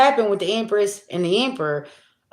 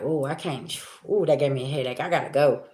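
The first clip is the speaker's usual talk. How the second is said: softer, weary mock excuse to leave; drained quiet excuse; 5 semitones lower, 7 dB quieter than usual. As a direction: mutter a tired excuse and back away. Quote of feeling drained by people.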